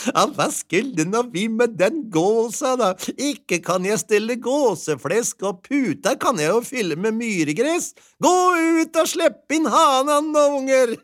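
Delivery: put-on wife sending children for the rooster; laughing wife. A narrator's reading. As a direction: giggle then call out.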